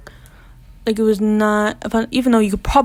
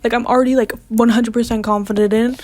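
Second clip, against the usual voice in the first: upset protest; 3 semitones higher than usual. Retold or imitated. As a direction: insist the work is fine, close to tears. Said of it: "And I started crying".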